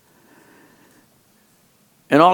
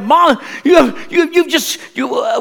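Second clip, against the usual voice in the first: mock yell; 10 semitones higher, slower than usual. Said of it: "telling my mom and dad".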